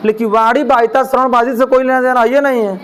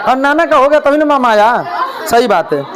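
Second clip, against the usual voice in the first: laughing. Real, not acted. Student laughs, joking.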